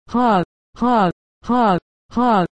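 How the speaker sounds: shouted laugh. A narrator's reading. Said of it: "shouted both Coates".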